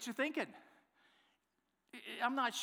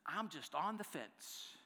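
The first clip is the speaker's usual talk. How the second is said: slow mock-pondering; 7 dB quieter, slower than usual. Shown as a demonstration. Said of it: "What about this one?".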